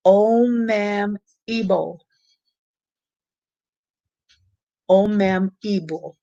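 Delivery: "Omem Ibo" drawn out carefully, ending in oh; careful name pronunciation. Shown as a demonstration. Trying to say a viewer's name correctly, careful "Omem Ibo". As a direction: sound out "Omem Ibo" slowly, part by part. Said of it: "I wanted to be able to say your name".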